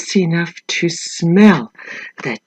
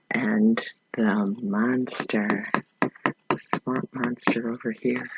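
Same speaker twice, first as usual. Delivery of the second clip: spooky whisper; 8 semitones lower, 12 dB quieter than usual. Acted. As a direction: hush it to spook the kids. Spooky reveal of the monster.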